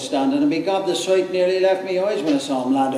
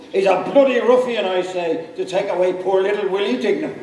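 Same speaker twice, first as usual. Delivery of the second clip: put-on drunken shout; 4 semitones higher than usual. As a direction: bellow it at the heavens, maudlin and angry. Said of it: "Bob Doran shouts out of him".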